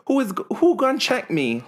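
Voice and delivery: high, sassy diva challenge; sassy Portia line. Retold or imitated. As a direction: toss it off like a reality star. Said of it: "China's like".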